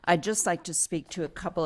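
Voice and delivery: hoarse, fading voice; losing voice. Real, not acted. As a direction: talk through a voice that's going. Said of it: "I'm losing my voice a bit".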